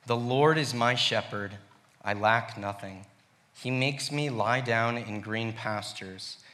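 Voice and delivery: measured, unhurried reading of the psalm; scripture reading. Acted. Reading Psalm twenty-three aloud.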